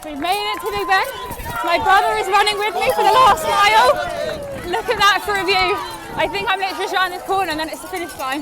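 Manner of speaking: breathless, excited; high with final-mile adrenaline. Real, not acted.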